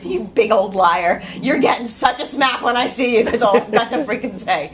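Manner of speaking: loud, playful telling-off with a laugh; mock scolding. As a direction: pretend to threaten a lying friend. Mock-scolding a friend who misled her.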